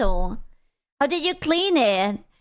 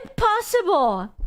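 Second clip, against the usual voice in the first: mock earnest excuse; 6 semitones higher than usual. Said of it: "That's exactly what it sounds like".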